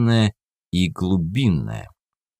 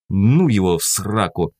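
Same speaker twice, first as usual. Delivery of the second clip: spat out. Acted. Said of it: "сплюнул я".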